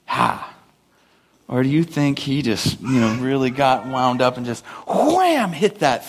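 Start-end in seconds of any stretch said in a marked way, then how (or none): 0.0-0.5 tiny tap grunt. Retold or imitated. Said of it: "gave it a little".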